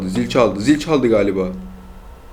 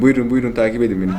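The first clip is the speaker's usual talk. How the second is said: laughing; faster than usual. Real, not acted. Granny chasing him in game.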